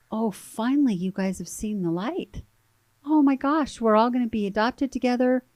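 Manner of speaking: bursting with relief and joy; giddy happy exclamation; excited. Retold or imitated. Retold joyful reaction at adoption.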